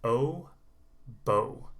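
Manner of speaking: O, then bow with the same oh; bow said to rhyme with go; long O demo. Shown as a demonstration. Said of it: "you have a bow".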